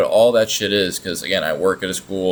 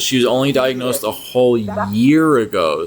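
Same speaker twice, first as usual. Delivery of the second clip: louder, sneering mock disbelief; sarcastic mockery; 4 semitones higher, 6 dB louder, slower than usual. Commentator mocking Tofia's claim, louder sarcastic sneer. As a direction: scoff at how short a year is.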